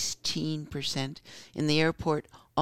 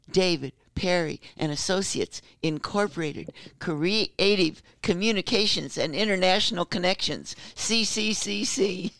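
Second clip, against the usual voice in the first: radio announcer voice; 3 semitones higher than usual. Retold or imitated. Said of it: "let me do it".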